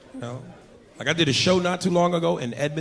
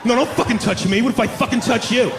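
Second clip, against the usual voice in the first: entitled white partier; 4 semitones higher than usual. Retold or imitated. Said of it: "y'all get braver".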